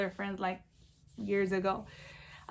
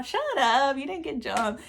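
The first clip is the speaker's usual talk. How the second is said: retold friend's higher-pitched disbelief; disbelieving retort; 4 semitones higher than usual. Friend answering claim she got jumped, mock disbelief. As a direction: imitate a friend scoffing in disbelief.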